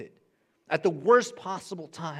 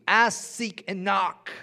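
much higher, louder proclamation; emphatic call; 7 semitones higher, 8 dB louder, slower than usual. Shown as a demonstration. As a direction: proclaim each word to the crowd. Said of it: "preacher repeats the verse".

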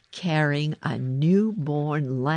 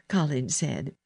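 ordinary delivery

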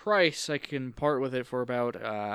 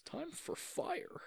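whispered; 14 semitones higher, 12 dB quieter, slower than usual. Acted. Whispered menacing line.

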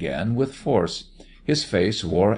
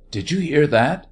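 higher, nervous question; 7 semitones higher, 4 dB louder than usual. A narrator's reading. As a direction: ask it nervously, pitched up. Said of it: "she asked nervously".

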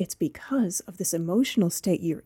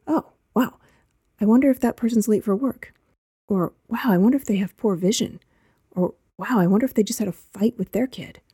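curious thought; 3 semitones higher than usual. Retold or imitated. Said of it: "A thought like".

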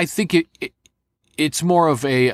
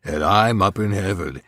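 George Carlin; 2 semitones lower than usual. Acted. Dead comedian scolding people from heaven, caustic impression. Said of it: "I did George Carlin for that".

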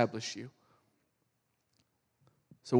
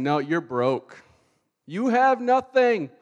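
nagging devil; 3 semitones higher, 5 dB louder, slower than usual. Acted. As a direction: build into a loud, hammed-up accusation. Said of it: "nagging voice in the background".

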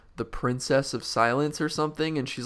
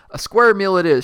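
higher, louder hammy shout; humbug shouting; 8 semitones higher, 11 dB louder than usual. Acted. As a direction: bellow the order to the waiters. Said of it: "shouted the humbug again".

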